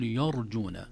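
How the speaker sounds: يرجون with a thickened, dark "ya"; heavy Y mistake. Shown as a demonstration. Teacher showing the error, Y of يرجون thickened. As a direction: say يرجون wrongly, first syllable heavy. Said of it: "ترقيق الياء، لا نقول".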